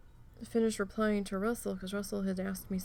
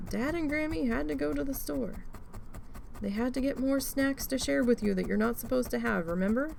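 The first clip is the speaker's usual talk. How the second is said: talking to the dog; 5 semitones higher than usual. Retold or imitated. Explaining to the dog.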